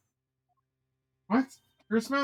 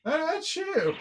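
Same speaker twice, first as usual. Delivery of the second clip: mock sneeze; 9 semitones higher, slower than usual. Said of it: "Don't make faces like".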